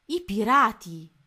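alarmed cry. A narrator's reading. Sees the pirate flag.

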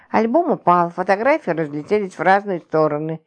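usual speaking voice

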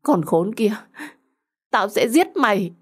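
acted rage at a betrayer; angry. A narrator's reading. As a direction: curse and threaten in anger. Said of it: "lúc này thực sự rất là tức giận".

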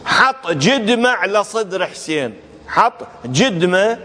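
Iraqi pronunciation, جدمة with a "j" for standard "q"; Iraqi dialect. Shown as a demonstration. Lecturer quoting a mourning verse in Iraqi dialect. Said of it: "باللهجة العراقية يقول".

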